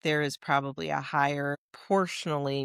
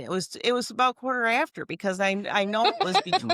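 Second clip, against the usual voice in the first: put-on fussy old grandma correcting herself, a bit higher; lightly voiced grandma fretting over the time; grandma impression; 4 semitones higher, 3 dB louder than usual. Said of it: "It's a great grandma impression".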